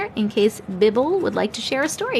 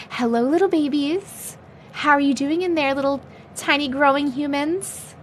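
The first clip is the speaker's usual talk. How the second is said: talking to babies; 4 semitones higher than usual. Real, not acted. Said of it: "That was for the babies".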